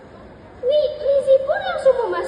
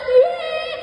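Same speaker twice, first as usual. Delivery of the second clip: higher-pitched happy whoop; joyful cheer; 8 semitones higher, 4 dB louder than usual. Acted. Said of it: "Joko melompat gembira". (sorakan gembira)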